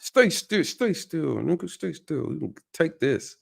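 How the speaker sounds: mocking the officer's quiet orders to the handcuffed man; imitating her hushed commands. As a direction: mutter it like she's pinning him down. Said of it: "Look at how she talk".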